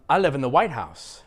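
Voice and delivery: quick "White House" as one word; stress on WHITE. Shown as a demonstration. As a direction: punch White, let House fall. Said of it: "I know I said that very quickly".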